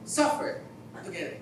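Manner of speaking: "Suffer together" breathed out, unvoiced and low; hushed repeat. Shown as a demonstration. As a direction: let "Suffer together" sink into a whisper. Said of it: "repeats the definition, hushed". (ibulong ang "Suffer together" nang mahina)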